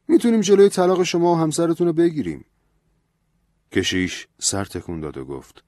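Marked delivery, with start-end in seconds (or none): 0.1-2.5 higher, louder, insistent priest; lecturing priest. A narrator's reading. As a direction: scold him with the priest's rising fervour. Priest offers help.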